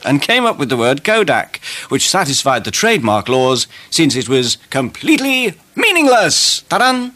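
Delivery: breathy sultry hostess voice; femme fatale. Pretend. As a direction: purr it like a glamour hostess. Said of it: "fascinating fact file".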